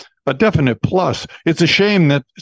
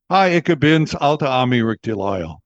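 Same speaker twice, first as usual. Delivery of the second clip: radio sign-on. Shown as a demonstration. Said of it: "started the next day going".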